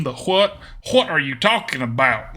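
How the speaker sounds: "what" started with a throaty hw; hawked-up "what". Shown as a demonstration. Streamer demonstrating a southernism, "what" said as hwat. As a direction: hawk up the h in "what", Southern style. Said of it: "hard to hawk up the what".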